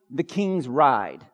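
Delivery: slow emphatic sermon point; preacher stating a point for notes; slow, deliberate point. Real, not acted. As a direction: say it slowly for note-takers. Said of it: "give them to you, if you're taking notes".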